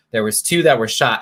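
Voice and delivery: winded from running; breathless after a dash; out of breath. Real, not acted. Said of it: "I'm out of breath".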